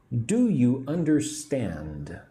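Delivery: slow model phrase with "Do you" linked; teacher's careful "Do you understand", "Do you" blended; words run together. Shown as a demonstration. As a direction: join "Do you" as one word, then a slow "understand". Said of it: "Put do and you together".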